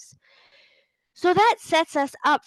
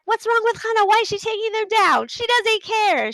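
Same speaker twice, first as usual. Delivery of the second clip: mock upset; 11 semitones higher, 3 dB louder than usual. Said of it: "Maybe you're like".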